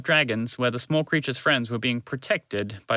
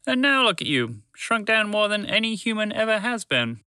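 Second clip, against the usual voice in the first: higher, amazed dragon voice; marveling; 7 semitones higher than usual. Acted. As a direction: point it out with wonder. Dragon marvels at shrunk sisters.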